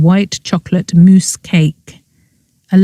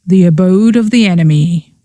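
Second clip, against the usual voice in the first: mock horror. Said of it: "said Allegra in mock horror".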